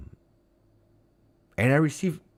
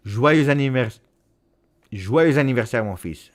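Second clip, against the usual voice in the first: loud, higher-pitched birthday cheer; birthday shout; 6 semitones higher, 10 dB louder than usual. Real, not acted. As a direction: call out a proud birthday wish. Calls out birthday wish to son.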